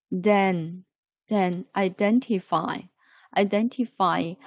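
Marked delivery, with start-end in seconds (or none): 1.3-4.3 identify ending in a long I sound; identify with -fy as fie; final y said like I. Shown as a demonstration. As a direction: end identify on a clear eye sound. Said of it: "F Y Y also pronounced like I".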